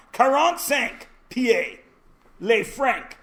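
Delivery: slow mock-French decree. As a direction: put on a playful French accent. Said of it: "except this is all in French".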